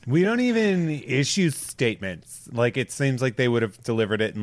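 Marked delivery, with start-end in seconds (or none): 0.1-2.5 slow, snotty mock teen girl; bitchy teen. Podcaster mocking the alliance's denial, bitchy teen voice. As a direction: drawl it like a sulky teenager. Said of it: "bitchy teen voice".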